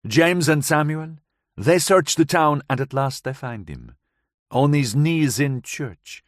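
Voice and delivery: put-on light foreign accent, woman recounting; Gabriella's voice. Gabriella tells the narrator of that night, lightly accented. Gabriella telling her story.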